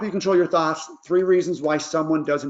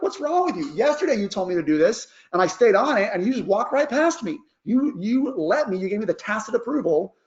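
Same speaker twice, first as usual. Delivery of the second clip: put-on higher, indignant teenager whine; teen complaining; 4 semitones higher than usual. Lightly voiced teen complaining to mom about being grounded. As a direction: sass the parent like a fed-up teen. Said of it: "They're like".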